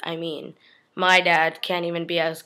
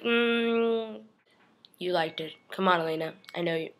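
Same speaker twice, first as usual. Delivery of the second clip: teasing murmur; 7 dB quieter than usual. Acted. Damon teasing Elena in reply.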